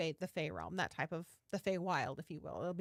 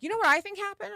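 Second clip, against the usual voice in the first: a big, mock-dramatic question, much higher and louder; dramatic reveal; 11 semitones higher, 11 dB louder, faster than usual. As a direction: ham up the therapist's big reveal. Therapist's dramatic question retold.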